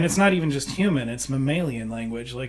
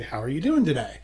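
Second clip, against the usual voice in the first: "How are you doing today?" said with a falling end; flat-ending question demo; question tune demo. Shown as a demonstration. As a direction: ask it but let it drop. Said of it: "I didn't go up at the end".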